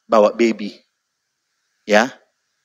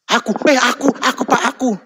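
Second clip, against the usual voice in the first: eager; 10 semitones higher than usual. Retold or imitated. Eager people at aid line.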